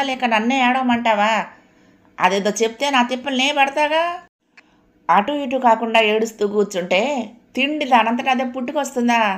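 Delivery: exasperated, high-pitched household scolding; scolding mother-in-law. Acted. Voices scolding mother-in-law in story.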